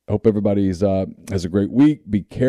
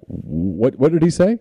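surprised; 5 semitones higher, slower than usual. Retold or imitated. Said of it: "she turns her head like".

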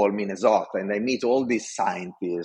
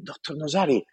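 higher, bubbling enthusiasm to the boss; eager report; 5 semitones higher than usual. Retold or imitated. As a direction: sell the good news with excitement. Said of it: "And I tell him".

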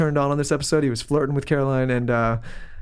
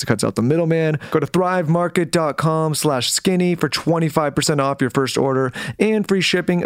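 smooth, steady podcast ad read; sponsor ad read; 3 dB louder than usual. Acted. Host pitching sponsors to listeners, ad-read delivery. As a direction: read it like a polished sponsor spot.

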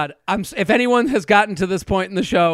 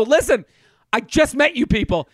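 yelling; 4 semitones higher than usual. Retold or imitated. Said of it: "I'm yelling at them".

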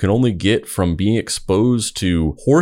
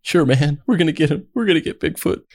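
sarcastic; 8 semitones higher than usual. Pretend. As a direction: humor a dying man. Sarcastic reply to dying hope.

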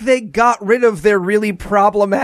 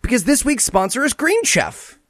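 announcer voice; 3 semitones higher than usual. Acted. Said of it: "why are you doing announcer voice?".

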